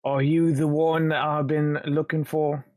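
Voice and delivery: lightly voiced British gangster questioning. Intruder questions man hiding in cellar, British gangster accent. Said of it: "sounding like a British gangster".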